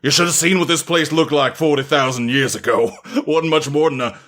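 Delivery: a lightly voiced stately old butler; grand, formal butler speech. The butler addresses the assembled masters, lightly voiced and stately.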